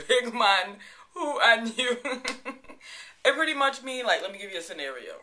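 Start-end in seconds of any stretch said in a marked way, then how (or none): 0.1-2.0 laughing through it. Shown as a demonstration. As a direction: giggle the phrase out. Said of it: "I still say it to this day".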